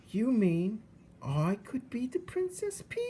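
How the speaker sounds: high breathy whisper; awed whisper. Acted. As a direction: whisper it in awe of the dream.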